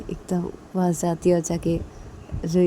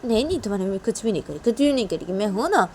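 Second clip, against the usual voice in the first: fast, soothing no-no; calm her quickly; reassuring; 4 semitones higher, much faster than usual. Acted. Father reassures frightened daughter, quick and reassuring.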